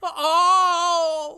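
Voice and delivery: high nasal loud "Oh!"; shrill surprised yelp; Fran Drescher yelp. Acted.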